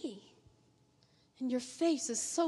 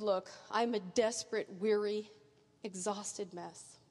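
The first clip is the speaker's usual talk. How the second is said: softer, dragging, fading to near nothing; weary honest cry; 7 semitones lower, 4 dB quieter than usual. Acted. Believer confessing exhaustion to the Lord, worn out. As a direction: let the exhaustion sink the words. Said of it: "the honest cry".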